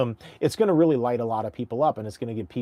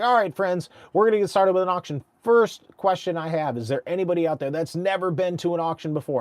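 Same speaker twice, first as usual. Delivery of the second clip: higher, fast, lively host voice; auctioneer crowd warm-up; 5 semitones higher than usual. Retold or imitated. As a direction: rev up the room. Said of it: "warm up the crowd like this".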